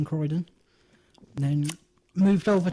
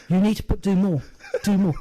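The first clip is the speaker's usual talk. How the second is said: louder, insistent "Do more"; mock stern Irish demand; 4 dB louder than usual. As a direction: bark it like a stern IRA man. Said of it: "I was doing both parts".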